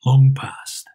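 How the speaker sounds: put-on a short sharp question from an old man; old Scrooge. Scrooge asks.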